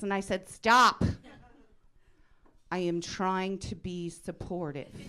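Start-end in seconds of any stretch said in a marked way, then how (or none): 0.5-1.0 sudden loud, high-pitched halt; exasperated cut-off. Retold or imitated. Mom interrupting her daughter's list, exasperated and loud. 2.7-5.0 slow, carefully spaced words; measured restraint. Retold or imitated. Mom trying to be supportive of her daughter, measured. Mother straining to stay supportive.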